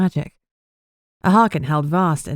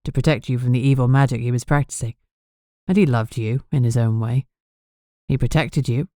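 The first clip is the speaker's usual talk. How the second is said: lower, tender correction; fiancé soothing her, soft and lower; soft and gentle; 4 semitones lower than usual. Acted. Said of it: "Bastian corrected softly".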